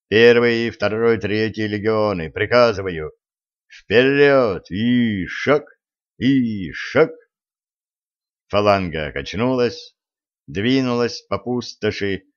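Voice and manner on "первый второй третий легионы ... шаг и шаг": barked commands. Acted. Commander orders the legions forward.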